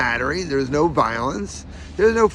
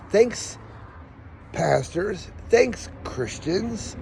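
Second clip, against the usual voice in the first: missing front teeth; 4 semitones higher, 5 dB quieter, much slower than usual. Real, not acted. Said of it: "my missing teeth".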